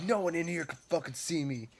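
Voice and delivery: high-pitched mimicked voice; mimicked maze guest. Imitating dudes in the dark maze, high mocking voice.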